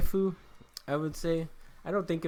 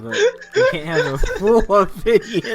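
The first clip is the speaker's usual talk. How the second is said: cracking up; 7 semitones higher, 10 dB louder than usual. Real, not acted. Telling friend he can't have an opinion, cracking up. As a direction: talk through loud, high bursts of laughter.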